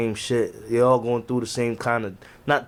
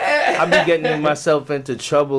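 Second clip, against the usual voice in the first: laughing; 2 semitones higher than usual. Real, not acted. Laughs while admitting to trouble.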